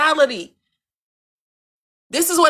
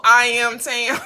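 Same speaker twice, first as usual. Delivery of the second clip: shouted catchphrase; slower than usual. Real, not acted. Closing catchphrase.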